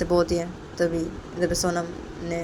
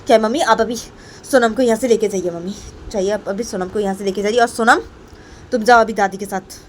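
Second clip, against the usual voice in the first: mildly cross, raised commanding voice; irritated order; 4 semitones higher, 6 dB louder than usual. Acted. Payal orders Sonam out with her grandmother, irritated. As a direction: send the child off impatiently. Irritated mother sends child away.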